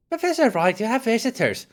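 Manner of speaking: housekeeper calling out. Acted. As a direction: call brightly up to the patient, high voice. Retake of housekeeper without German accent.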